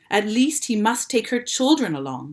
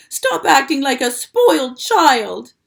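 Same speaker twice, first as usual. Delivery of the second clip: loud, slow, higher scolding; angry scolding; 7 semitones higher, 10 dB louder than usual. A narrator's reading. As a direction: scold him hard. Wilbur scolding loudly.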